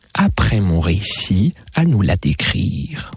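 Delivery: lightly voiced lady with lilting pitch leaps; mademoiselle conteuse. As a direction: tell it in a lively, swooping lady's voice. Garembois tells the story. (conteuse un peu chantante, envolées aiguës)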